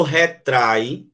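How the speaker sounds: "retrai" in two beats, stronger on "trai"; stress on TRAI. Shown as a demonstration. Teacher shows the tonic syllable, stress on "trai" in "retrai". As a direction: say "retrai" slowly as re-TRAI, A and I together. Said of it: "a mais forte é trai".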